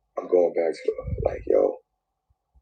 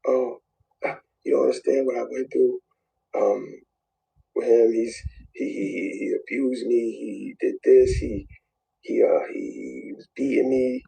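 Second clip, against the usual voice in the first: higher, pleading mock plaint; mock victim; 6 semitones higher than usual. Man mimicking his ex's plea online in a high mock plaint. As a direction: play her tearful claim, half-mocking. Voicing the woman's online claims.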